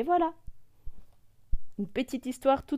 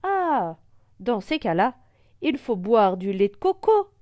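insisting; 6 dB louder than usual. Acted. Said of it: "insiste le ouistiti".

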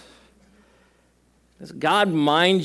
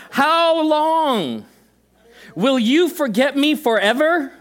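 much higher, louder pleading cry; anguished lament; 9 semitones higher, 4 dB louder, slower than usual. Acted. Preacher reading David's lament aloud, high desperate cry. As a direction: wail it out as a desperate question.

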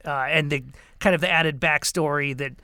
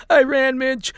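higher, shaken and tearful; half sobbing; 8 semitones higher, 4 dB louder than usual. Acted. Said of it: "shivering, half sobbing".

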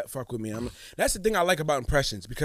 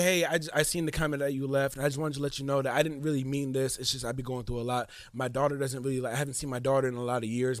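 low, softer, mildly imitated apology; subdued apology; 4 semitones lower, 5 dB quieter than usual. Retelling a troll's excuse about his daughter, low subdued imitation. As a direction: lightly imitate a sheepish explanation.

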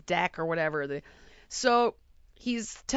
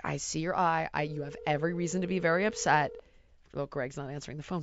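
placating; 4 semitones lower, 5 dB quieter, faster than usual. Retold or imitated. Placating a screaming drunk teenager.

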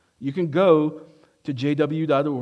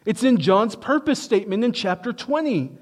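rising preaching fervor; 7 semitones higher, 4 dB louder than usual. Acted. Preaching climax.

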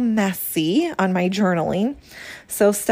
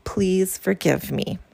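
earnest plea. Shown as a demonstration. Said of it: "Step two".

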